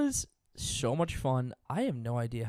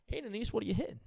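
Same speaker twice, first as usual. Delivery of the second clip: mock smooth; 10 semitones higher, much faster than usual. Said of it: "Real smooth".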